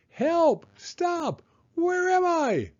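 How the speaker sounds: very high, loud panicked squeals; dazed crocodile cries. A narrator's reading. Crocodile sent tumbling, panicked high cries. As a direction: squeal in dizzy confusion. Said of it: "cried the crocodile".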